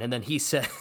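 usual speaking voice

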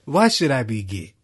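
hammed-up offended protest; mock indignant guest again. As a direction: repeat the offended denial. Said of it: "And then he said".

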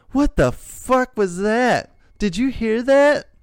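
high, slow, alarmed question; frightened wife, half-acted; startled wife.

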